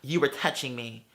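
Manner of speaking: mocking her. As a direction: mimic her whiny accusation low and soft. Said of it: "talking about".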